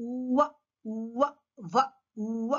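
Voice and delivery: "ఉవ్వ" gliding from oo into wa; "ఉవ్వ" as an isolated W sound. Shown as a demonstration. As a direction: round the lips forward for "ఉవ్వ". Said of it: "Our mouth goes forward".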